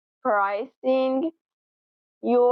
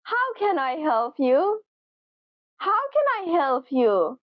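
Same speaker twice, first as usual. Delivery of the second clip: polite offer of help; 3 semitones higher than usual. Shown as a demonstration. Teacher showing a coworker's polite greeting, friendly and helpful. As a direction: ask kindly, ready to help. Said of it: "a much more polite expression".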